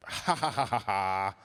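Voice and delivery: forced, polite dad laugh; fake laugh. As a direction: laugh dutifully at a child's weak joke. Dad feigns laughter to indulge.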